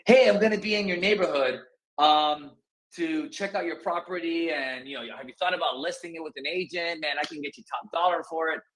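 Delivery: lightly acted agent pitch. Shown as a demonstration. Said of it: "start talking like that".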